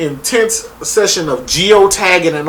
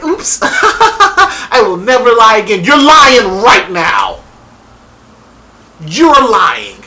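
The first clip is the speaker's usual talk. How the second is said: giggly, slow, louder; mock laughing liar, then accusing; 5 semitones higher, 4 dB louder, slower than usual. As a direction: laugh through the fake promise. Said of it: "she's like".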